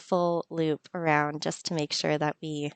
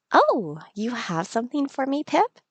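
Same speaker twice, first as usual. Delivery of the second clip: higher, gentle villager voice; lightly voiced game villager; Kara's voice; 4 semitones higher than usual. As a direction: voice Kara kindly and a little surprised. Voicing Kara in game.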